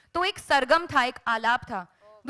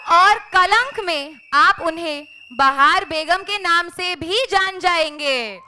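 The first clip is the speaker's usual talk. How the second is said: poetic recitation; 3 dB louder than usual. Acted. Host recites couplet intro.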